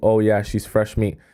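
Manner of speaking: ordinary talk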